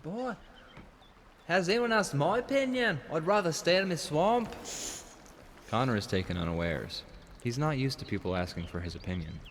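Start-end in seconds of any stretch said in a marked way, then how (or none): 0.0-4.5 much higher mock Scottish ogre; hammed-up Shrek. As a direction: grumble like a swamp ogre. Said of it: "I could do Shrek".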